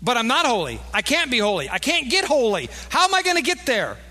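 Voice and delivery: high, loud, desperate protest; a loud, anxious plea rising high on the last line; loud pleading. Acted. Imagined pleading listener.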